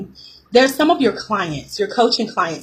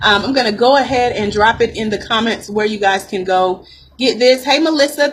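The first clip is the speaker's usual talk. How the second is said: ordinary talk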